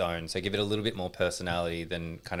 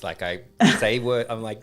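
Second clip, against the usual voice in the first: ordinary talk, nothing marked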